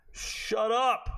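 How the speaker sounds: high, drawn-out mock yell; exasperated outburst. Host cutting off film-channel experts, exasperated high outburst. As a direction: cut off the know-it-all with a high cry.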